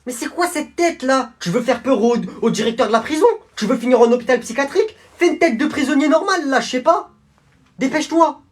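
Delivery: guard fed up with the prisoner's face; exasperated guard. Acted. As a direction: tell him off, losing patience.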